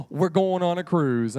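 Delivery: loud, breath-caught announcement; excited girl. Acted. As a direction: announce big news after a gasp. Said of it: "I was super duper excited".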